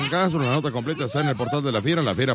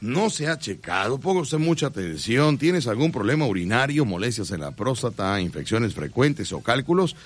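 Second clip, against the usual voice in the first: steady announcer sales voice; live radio ad read. Acted. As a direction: sell the doctor to listeners. Reads sponsor ad.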